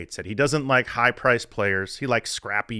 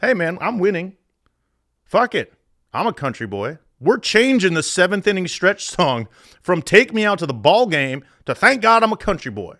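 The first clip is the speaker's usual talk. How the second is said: Billy's voice; 7 semitones higher, 3 dB louder than usual. Retold or imitated. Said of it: "Billy decided".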